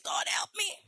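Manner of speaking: breathless whispered cry for help; whispered plea. Retold or imitated. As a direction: whisper it like a desperate prayer. Retelling crying prayer to God.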